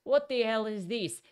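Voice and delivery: loud high retold shout; mock shout of lost patience. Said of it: "and he shouted".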